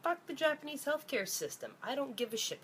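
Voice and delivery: high-pitched angry outburst; real angry outburst. Real, not acted. Venting to viewers about doctors, a high angry outburst. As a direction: spit it out, fed up and furious. Ranting about Japanese healthcare.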